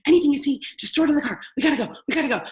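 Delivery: put-on loud, rushed shouting at the kids to hurry; frantic shouting. Mom yelling at her kids to hurry before cleaners arrive, loud and frantic. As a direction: yell at the kids to pack up fast. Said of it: "I'm like".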